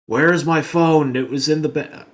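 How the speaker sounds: loud, high, accusing mock yell; imitated yelling. Angry customer accusing restaurant staff over his lost phone, yelling. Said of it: "fucking, like, yelling at us".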